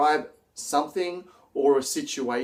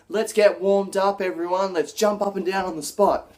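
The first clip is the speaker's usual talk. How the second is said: higher and louder, pumping up the crowd; energetic rallying call; 6 semitones higher, 4 dB louder than usual. Shown as a demonstration. Presenter demos prompting the audience to jump, energetic call. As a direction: get the whole room moving. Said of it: "Or you could say".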